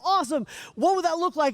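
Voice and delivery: high, loud cheery follow-up; upbeat host. Retold or imitated. Speaker quizzes the crowd, high loud cheer. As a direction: keep the energy up and probe.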